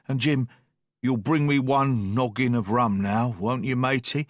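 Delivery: lightly voiced weak old sailor, coaxing; old sea captain. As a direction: coax the boy gently for rum. Captain begs Jim for rum.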